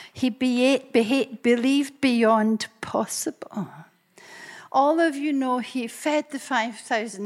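slow, measured preaching cadence, leaning on beyond. Acted. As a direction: build each beyond line like a sermon refrain. Preaching rhythmic beyond list.

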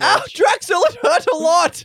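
very high, loud whine; hammed-up pain. Wounded warrior whining to Drexel, high and loud. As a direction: overplay the hurt.

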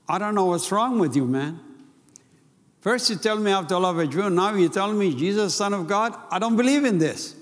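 retold angry outburst. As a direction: push back harder with each line. Jumped off sofa, retold outburst.

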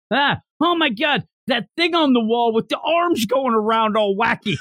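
high-pitched hammed-up astonishment; imitating someone astounded by an everyday object; mock amazement. Mocks character amazed by modern objects.

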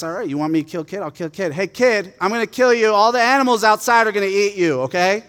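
taunting Goliath. Retold or imitated. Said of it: "And then Goliath's".

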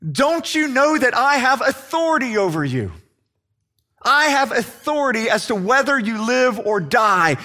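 mildly exasperated, pitch lifted; a touch of exasperated authority; frustrated Pilate. Acted. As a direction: press the point with restrained frustration. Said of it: "this frustrated Pilate".

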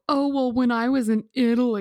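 mock show-off traveler; pretentious bragging. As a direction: drop it in like an insufferable name-dropper. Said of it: "Do you kinda feel like an asshole".

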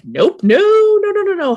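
high, rapid string of no's; frantic refusal. Retold or imitated. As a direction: panic and shut her down fast. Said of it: "And Waverly is like".

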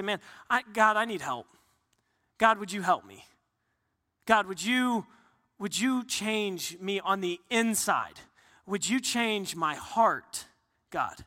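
lightly voiced humble prayer; earnest prayer. Pastor voices a prayer for help.

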